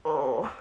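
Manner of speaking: low, soft sleepy groan; moan. A narrator's reading. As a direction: moan like someone under the covers. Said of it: "The lump moaned".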